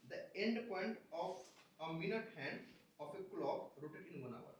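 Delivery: slow, measured question read-out; deliberate, spaced-out textbook reading. Acted. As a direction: read the problem out word by word, slowly. Reads exam question aloud.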